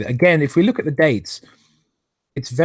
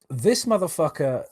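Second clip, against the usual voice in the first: simmering anger; 4 semitones higher than usual. Real, not acted. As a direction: hold the anger in and let it simmer. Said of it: "I'm so angry I can't even speak".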